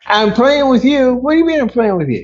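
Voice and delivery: high, disbelieving echo; incredulous. Real, not acted. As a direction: throw the words back in disbelief. Judge incredulous at defendant's jab.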